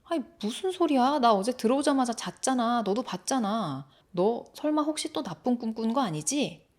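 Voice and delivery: mildly incredulous, puzzled protest; baffled protest. Acted. Brother feigning ignorance to the boy, baffled. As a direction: act as if you have no idea. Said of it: "영문을 모르겠다는 듯".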